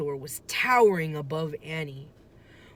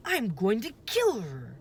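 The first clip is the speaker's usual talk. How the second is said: muttered; 6 semitones higher, 4 dB louder than usual. A narrator's reading. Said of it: "Jack muttered".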